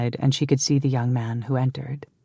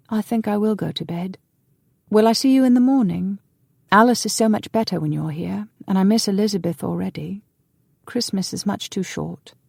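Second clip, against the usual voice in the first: put-on young man's voice; 6 semitones higher than usual. Younger brother speaks.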